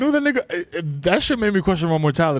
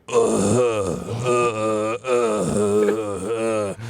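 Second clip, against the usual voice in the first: dying groans; 4 semitones lower, much slower than usual. Retold or imitated. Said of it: "I just hear".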